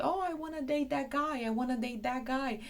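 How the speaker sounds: mocking naked contestants, eager gushing tone. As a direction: play a keen dating-show contestant. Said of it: "show up on T V and say".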